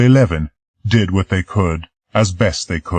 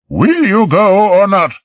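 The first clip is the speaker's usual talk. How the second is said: louder, higher sharp demand; 14 semitones higher, 7 dB louder than usual. Acted. Marie snapping at Peter, louder and higher. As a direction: push him to decide now.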